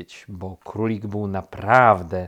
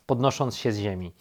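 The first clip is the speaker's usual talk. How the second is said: ordinary delivery, nothing marked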